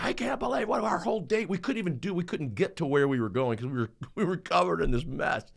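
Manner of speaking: retold frustrated outburst, mildly heated; angry rant. A father ranting after the car trip, mock angry. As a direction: vent about the ruined day, half-replayed. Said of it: "I'm angry".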